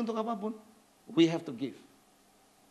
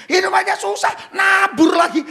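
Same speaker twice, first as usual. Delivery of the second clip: loud, mocking shout; hammed-up loud complaint; 6 semitones higher, 8 dB louder, slower than usual. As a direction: poke fun at the grumbler. Mimics a congregation complaint.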